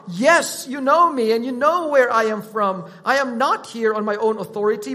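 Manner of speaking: loud, emphatic proclamation; crying out. Retold or imitated. Preacher quotes Jesus to the temple crowd, crying out. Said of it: "He cried out".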